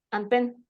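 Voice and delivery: "And pen" tried quickly, still two sounds; dos sonidos aun rápido. Shown as a demonstration. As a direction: hurry "And pen" but keep both words distinct. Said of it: "Aunque lo quisiera decir rápido". ("And pen" rápido pero en dos sonidos)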